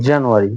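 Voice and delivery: জানুয়ারি modelled as "jen-yoo-ary"; teacher demo of জানুয়ারি; British pronunciation. Shown as a demonstration. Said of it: "উচ্চারণটা হবে". (শিক্ষকের মতো জানুয়ারি উচ্চারণ)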